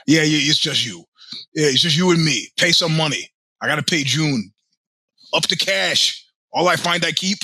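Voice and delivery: hamming up a street robber's demands; mugger's lines. Retold or imitated. Robber hassling the young comedian, mock menacing voice. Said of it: "famous lines from my youth that were used on me".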